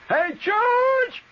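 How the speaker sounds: long, high, loud call from the back yard; kid hollering a name. Retold or imitated. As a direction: call your buddy out to play at full voice. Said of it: "and he hollers".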